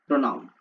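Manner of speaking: प्रोनाउन said clearly as pronaun; model pronunciation. Shown as a demonstration. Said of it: "next बोलेंगे मेरे साथ प्रोनाउन". (प्रोनाउन का साफ़ उच्चारण)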